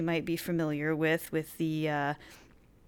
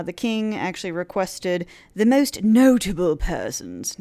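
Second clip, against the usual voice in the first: put-on English accent; 5 dB louder than usual. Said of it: "I did that with an English accent".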